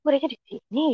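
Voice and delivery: retold murmur of disbelief; puzzled. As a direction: repeat the doubt quietly to yourself. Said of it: "saya masih bertanda tanya".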